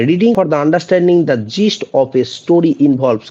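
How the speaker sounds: slow, deliberate dictation pace; slow quiz reading; slow question read. Shown as a demonstration. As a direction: read each word out for the class. Reads quiz question aloud.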